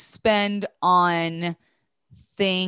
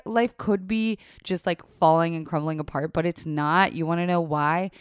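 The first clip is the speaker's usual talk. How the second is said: ad read. Acted. Sponsor ad read.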